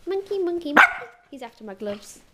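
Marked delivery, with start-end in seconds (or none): 0.1-1.1 louder call. Real, not acted. Calling the cat.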